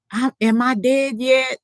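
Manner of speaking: mild mock scream, voice lifted high; retold screaming child. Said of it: "the little girl woke up screaming".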